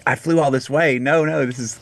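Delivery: a touch of retold frustration at being led the wrong way; worked up. Singer protesting to the guides, a little worked up. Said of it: "I'm getting a little worked up".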